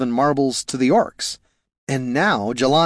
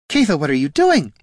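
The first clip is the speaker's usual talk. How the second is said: higher-pitched, alarmed question; rising panic; 5 semitones higher, 4 dB louder than usual. A narrator's reading. Jelana questioning her sister, panic rising. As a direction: let panic creep into the question. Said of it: "panic rising".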